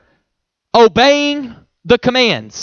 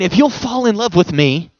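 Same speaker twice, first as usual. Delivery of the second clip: gentle Jesus voice. Retold or imitated. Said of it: "He's just saying".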